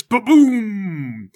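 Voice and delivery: loud, drawn-out imitated boom; thunderous boom. Game master voicing two slabs slammed together, thunderous boom. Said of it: "there is a thunderous".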